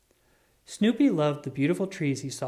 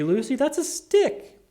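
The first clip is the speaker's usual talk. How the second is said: the word stick pitched up and drawn out, slow; patient correction; 10 semitones higher, 5 dB louder than usual. A narrator's reading. Charlie Brown tells Lucy her tree is a stick, drawn out. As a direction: set Lucy straight, slowly and high.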